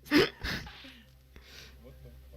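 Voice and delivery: slow, high stunned what the; drawn-out shocked cry; shocked outburst. Real, not acted.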